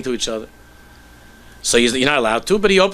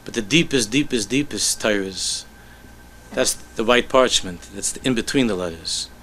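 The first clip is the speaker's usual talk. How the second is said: slow, softer, lower confiding voice; tender hush; 3 semitones lower, 4 dB quieter than usual. Acted. Rebbe confiding the hidden meaning, slow and softer. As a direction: draw him in with the secret, slowly. Rebbe reveals the deepest secret.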